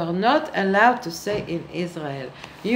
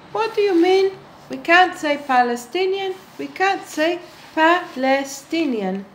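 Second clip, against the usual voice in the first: mock outrage; 7 semitones higher than usual. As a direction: act shocked that anyone would say it. Mock outrage at forbidden word.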